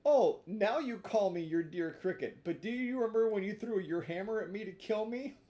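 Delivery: reproachful cricket. Acted.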